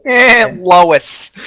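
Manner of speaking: mock cartoon-husband call; drawn-in "eh", then call the name; Lois call impression. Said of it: "not quite like that".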